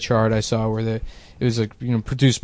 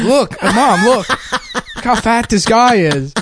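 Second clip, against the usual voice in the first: put-on higher, slow, laughing child voice; mock little kid; 10 semitones higher, much slower than usual. Comic voicing his child self pointing out a man to Mom, kid voice.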